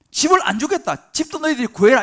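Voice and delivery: angry decree, high and loud. Acted. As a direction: lay down a punishment in anger. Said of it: "바로 화가 나갖고". (화난 목소리로 크게 엄포 놓기)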